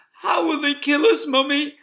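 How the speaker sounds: high, loud scared small fox; frightened cub. Acted. Cub asking his mother, frightened and high. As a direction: ask like a frightened little cub. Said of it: "asked one of the small foxes".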